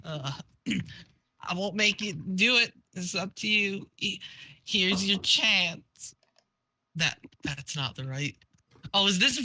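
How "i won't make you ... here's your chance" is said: lightly acted dying troll, halting; mild deathbed voice with pauses; Vriska dying. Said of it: "I need to do a dying Vriska voice".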